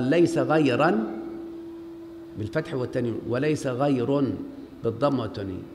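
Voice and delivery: measured recitation for students. Shown as a demonstration. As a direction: spell out the rule word by word. Teacher recites grammarian's rule.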